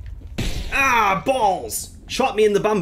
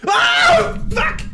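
very high cry of alarm; shocked yell; 3 dB louder than usual. Real, not acted. Player caught out in the game, shocked yell. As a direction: yelp it out in shock.

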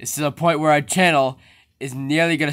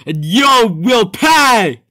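slow angry threat; 6 semitones higher, 5 dB louder, slower than usual. Acted. Trapped creature threatens.

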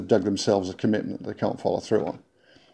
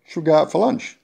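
friendly invite; 7 semitones higher, faster than usual. Retold or imitated. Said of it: "you need to kind of go".

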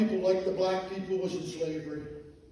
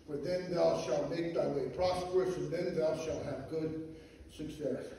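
scripture reading; 2 semitones lower than usual. Acted. Reads scripture aloud.

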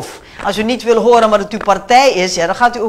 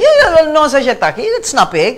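raised, louder mock outburst; angry retort; 3 semitones higher, 3 dB louder than usual. Politician mimicking an angry MP in parliament, mock angry outburst. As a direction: imitate an MP snapping back, higher and louder. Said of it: "dat je af en toe ook boos gaat worden".

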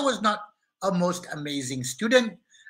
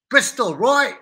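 put-on a loose, made-up stab at a Bristol accent, pitched up; 5 semitones higher, 4 dB louder, slower than usual. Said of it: "I don't even know if they talk like this in Bristol".

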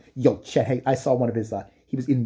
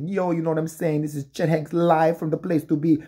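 higher, slangy mock rapper voice; lightly voiced wannabe rapper bragging on the carpet; mock rapper son; 4 semitones higher than usual. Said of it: "while he's like".

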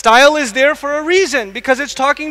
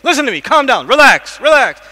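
loud, higher, insistent calm downs; urgent pleading; 3 semitones higher, 5 dB louder than usual. Retold or imitated. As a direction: keep urging a raging friend over and over. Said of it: "he says".

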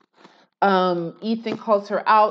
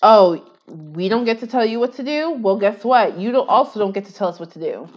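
quoting Elah; 4 dB louder than usual. Retold or imitated. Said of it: "Elah was also like".

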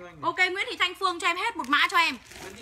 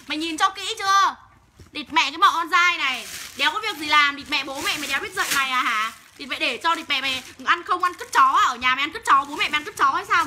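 real angry cursing. Real, not acted. Live seller telling off peeping hecklers, angry cursing. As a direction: lay into the hecklers, cursing them out. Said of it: "đừng bị nghe chửi".

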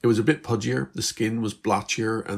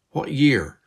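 insistent; 6 semitones higher, 6 dB louder than usual. Acted. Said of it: "Beth repeated insistently".

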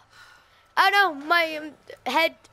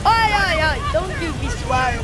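scolding shout; 2 semitones higher, 5 dB louder than usual. Real, not acted. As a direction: scold the game character for swearing, loudly. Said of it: "every time I hear swearing".

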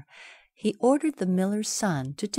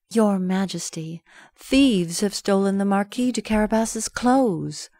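lightly voiced cat, a bit louder; cat's voice; 2 semitones higher, 4 dB louder than usual. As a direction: report the theft with mock distress. Cat reports to king.

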